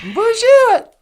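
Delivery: loud high Bonjour; mock French greeting. Greeting the caller with a loud mock French Bonjour. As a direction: sing out Bonjour like a French host.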